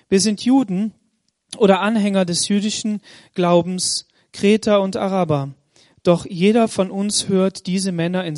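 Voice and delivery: measured, solemn Bible reading to the congregation; scripture reading. Acted. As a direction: read the passage as a steady public reading. Reads the Pentecost passage aloud. (feierliche Bibellesung vor der Gemeinde)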